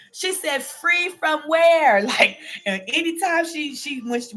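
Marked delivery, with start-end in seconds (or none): 0.6-2.0 higher and slow, a suspicious mother's question; mother's pitch climbing as trouble nears; mom's voice going high. Retold or imitated. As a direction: stretch it out like mama about to blow. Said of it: "when her voice gets a little high".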